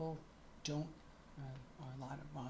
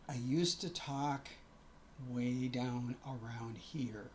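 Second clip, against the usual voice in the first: put-on lower, slower demo of her old voice; old male voice; 5 semitones lower, slower than usual. Shown as a demonstration. Showing viewers her former deeper voice. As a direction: drop down to the old low register, slowly. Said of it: "I have to really think about and concentrate on this".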